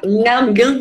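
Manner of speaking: quick "nham, nham" munching imitation; mimed chewing noise. Shown as a demonstration. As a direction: mimic gobbling food with the voice. Mimics greedy chewing of meat.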